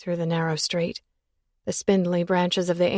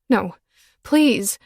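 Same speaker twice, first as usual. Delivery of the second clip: begging; 2 semitones higher, 5 dB louder than usual. Acted. Final begging.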